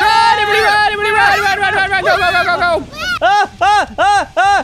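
high, loud mock-terror yelling; panicked screaming. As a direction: yell for everyone to run. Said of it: "Why are you screaming?".

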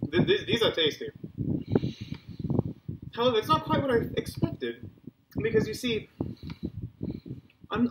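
talking while chewing; mouth full. Real, not acted. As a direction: speak through a mouthful. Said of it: "It's not cool to talk with my mouth full".

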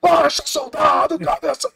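slow, very high shouted chant; shouting the song. Retold or imitated. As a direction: bellow the song to drown out the coordinator. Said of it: "E eu berrando mais alto". (cantando aos berros, lento e agudo)

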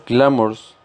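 glamours with the weight on gla; stress on first syllable. Shown as a demonstration. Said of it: "acentuación o fuerza en la primera sílaba". (fuerza en gla de glamours)

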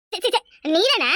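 slow, laughing it off; relieved laugh. Acted. Laughing with relief at the friend who startled her. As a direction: laugh away the fright.

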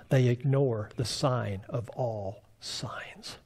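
slow, soft whispered emphasis. Acted. Preacher whispers to the congregation, slow and soft. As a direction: hush it like a secret.

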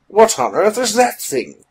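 high-pitched astonishment; startled question. A narrator's reading. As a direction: react aghast to a strange creature. William startled by squid man.

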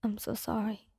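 soft, hushed tearful apology; acted, understated tearful near-whisper; crying apology. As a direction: apologize in a small voice, as if after crying. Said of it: "you've been crying for hours now".

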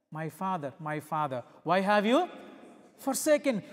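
anguished cry of the forsaken son. Acted. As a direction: plead from the cross in anguish. Jesus crying out on cross.

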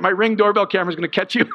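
breaking into laughter at the end; amused. Real, not acted. Pastor teasing a couple about the doorbell camera, amused. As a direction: chuckle through your own joke.

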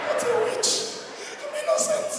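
very high squeaky mock voice; tiny high falsetto protest.

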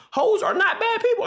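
laughing while insisting, pitch jumping up. Real, not acted. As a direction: laugh through the words. Laughing emphatic claim.

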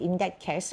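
"in that case" slowly, the s of "case" audible; final consonant sounded. Shown as a demonstration. Teacher points out the word ending, final consonant sounded. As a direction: finish "case" on a clear s. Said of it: "ข้างหลังมีนะ".

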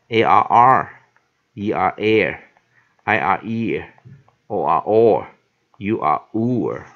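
letters named, then their sound: A R R, E R air, I R ear; r-controlled vowel drill. Shown as a demonstration. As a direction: chant A R R through U R or as separate drill items. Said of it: "我们来记得R control". (逐个示范 R 控制元音，先念字母再念读音)

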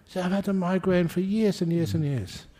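high-pitched joke-character voice; acted exclamation. Migraine sufferer answers Jesus in a joke, high-pitched exclamation.

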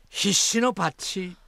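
a lightly punched Osaka-dialect 必死のパッチ; a touch of Osaka swagger; Osaka dialect punchline. Pretend. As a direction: deliver 必死のパッチ as a Kansai punchline. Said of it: "大阪弁に直すと".

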